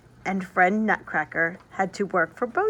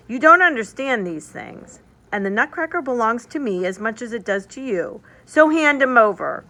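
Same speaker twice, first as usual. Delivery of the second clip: put-on bossy boy; 3 semitones higher, 5 dB louder than usual. Fritz demands the toy.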